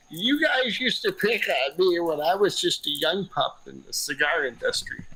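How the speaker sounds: slow, lightly voiced old-timer; a grumpy old man shaking his cane; old man grumbling. Picturing Mitchell at eighty-three scolding them, slow old-man voice. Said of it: "in his wheelchair ... eighty-three years old".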